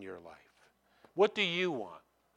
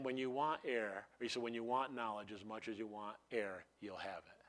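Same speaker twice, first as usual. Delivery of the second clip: calm wise teacher; 4 semitones lower, 11 dB quieter than usual. Retold or imitated. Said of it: "Socrates says to him".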